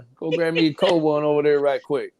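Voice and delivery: lightly voiced cowboy; a casual, half-committed cowboy impression. Cowboy asking his girl for a cold one, lightly played cowboy voice. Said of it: "Let me do my cowboy voice".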